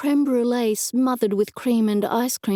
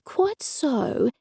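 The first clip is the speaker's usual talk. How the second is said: gushing repeat, pitched higher; effusive, higher; 5 semitones higher than usual. A narrator's reading. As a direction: pile on the eager agreement. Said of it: "he said effusively".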